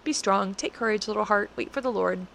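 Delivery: mild, kindly nudge to one's own heart; gentle encouragement. Retold or imitated. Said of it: "I can say that to my heart".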